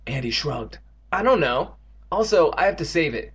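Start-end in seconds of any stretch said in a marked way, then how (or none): 1.1-3.3 excited. Acted. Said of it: "Evan continued excitedly".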